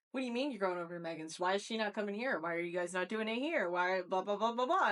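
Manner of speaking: put-on kids firing questions, rising into blahs; pestering interrogation, lightly mimicked; mock third degree. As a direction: imitate nagging kids, building to blah-blah. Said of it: "I got the third degree".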